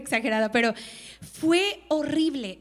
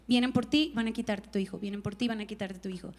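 ominous whisper; 6 semitones lower, 5 dB quieter than usual. Retold or imitated. Repeating the threatening voice.

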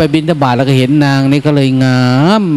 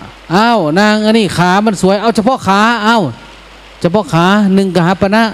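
auctioneer; 6 semitones higher than usual. Retold or imitated. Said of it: "ท่านว่า".

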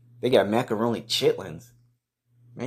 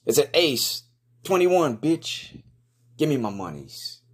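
gleeful triumphant shout, higher; excited; 7 semitones higher than usual. Real, not acted. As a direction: crow over the winning hand. Wins blackjack hand.

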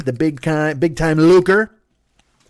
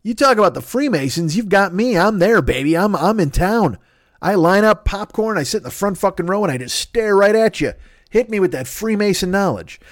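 mock eager; 5 semitones higher than usual. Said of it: "And I'm like".

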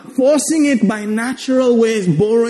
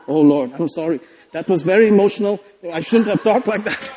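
meek apology; 2 semitones lower than usual. Retold or imitated. Believer apologizing to God, imitated meek apology. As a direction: back down humbly, as if caught out.

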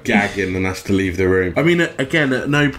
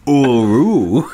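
surprised dog; 4 dB louder than usual. Shown as a demonstration. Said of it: "Wouldn't you just go".

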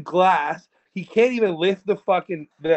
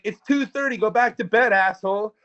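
higher-pitched mock dismissive cop; retold curt cop; 5 semitones higher than usual. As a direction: lightly act a guard brushing someone off. Cop snaps back at prisoner.

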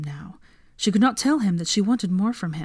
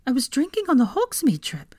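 horrified; 7 semitones higher than usual. A narrator's reading. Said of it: "she thought in horror".

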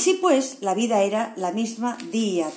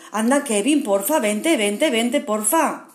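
pleading friends; 3 dB louder than usual. Acted. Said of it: "la pandilla insistió".

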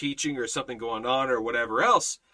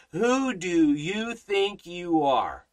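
retold angry pastor; 3 semitones higher, much slower than usual. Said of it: "starts screaming at me".

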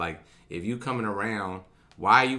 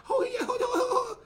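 much higher, laughing through the words; faster than usual. Real, not acted. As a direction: catch yourself mid-laugh. Laughing at his own slip.

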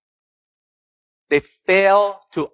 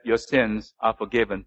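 solemn pronouncement; 7 semitones lower, 6 dB quieter than usual. Acted. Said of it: "But Jesus said".

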